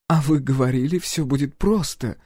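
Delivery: lightly voiced smirking lady; a mocking little told-you-so. A narrator's reading. First lady teases the general, lightly smirking. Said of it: "усмехнулась первая леди".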